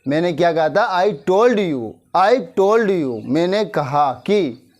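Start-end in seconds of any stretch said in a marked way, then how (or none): 2.2-3.2 drawn out, word by word; slow repeat. Shown as a demonstration. Teacher repeating for students, slow and spaced. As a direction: repeat it slowly for the class. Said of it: "क्या कहा था मैंने?".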